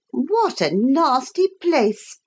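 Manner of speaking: high, slow, sneering disgust. Acted. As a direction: sniff at the nasty place. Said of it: "said the Pretenderette".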